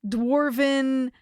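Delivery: slow, grand fantasy storyteller; storybook narration. Acted. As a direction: paint the dragon's lair grandly. Fantasy scene-setting for the dragon.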